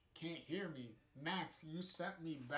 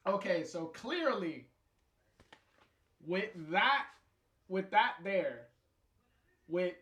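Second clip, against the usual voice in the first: giggly wrap-up; 4 semitones higher, 9 dB louder than usual. Real, not acted. Giggly, stumbling wrap-up after laughing.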